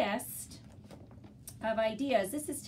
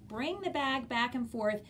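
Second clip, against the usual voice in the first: slow, clear reading aloud; reading to a toddler; 2 semitones higher, 4 dB quieter than usual. Shown as a demonstration. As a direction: read it out slowly for kids. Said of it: "you'll notice they say".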